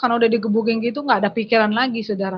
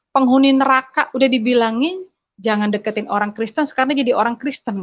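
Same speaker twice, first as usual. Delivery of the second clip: retold furious father; 2 semitones higher than usual. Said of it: "Bapak saya teriak".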